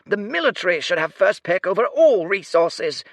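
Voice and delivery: "resources" squawked high and loud; shrill squawk. Acted. Bin demanding resources, high and squawking. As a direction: press the military's claim hard. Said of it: "his voice was but a shrill squawk".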